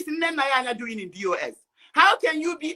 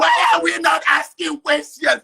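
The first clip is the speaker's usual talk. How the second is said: shouting over; 4 dB louder than usual. Real, not acted. Keeps shouting over host.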